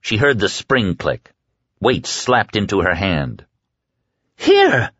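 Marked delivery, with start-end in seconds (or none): 4.4-4.9 very high, loud shriek; hysterical shriek. A narrator's reading. Woman shrieking as she swings the knife. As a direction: scream it as you strike. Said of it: "she shrieked hysterically".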